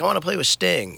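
high-pitched mock-eager younger self. Musician quoting his twenties self's ambition, mock-eager. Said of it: "when I was in my twenties".

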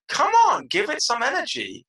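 high, loud "come on" plea; rally a flat guest with mock exasperation; exasperated urging. Urging an imagined guest to liven up.

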